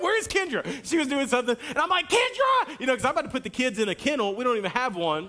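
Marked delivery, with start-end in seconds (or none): 0.0-0.6 calling out. Retold or imitated. Dad calling for wife at home. 2.1-2.8 loud, high yell of her name; hollering. Retold or imitated. Dad hollers for his wife about the scribbled wall, high loud yell. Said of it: "I'm hollering at Kendra".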